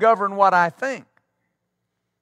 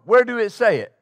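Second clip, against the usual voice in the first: a hint of the old pastor's speech, blunt question; lightly voiced pastor, asking it again; imitating Pastor Morton; 3 semitones higher, 3 dB louder than usual. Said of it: "That's how he spoke".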